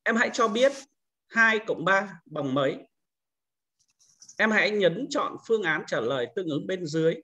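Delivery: put-on record a question for young pupils, pitch lifted at the start; teacher recording a quiz question for children, first take; recorded quiz prompt. Shown as a demonstration. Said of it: "Bây giờ tôi thu âm thử này".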